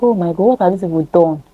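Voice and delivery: Ezra, stunned, speaking softly; quiet shocked Ezra. Retold or imitated. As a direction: gasp it out in disbelief. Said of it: "he was like".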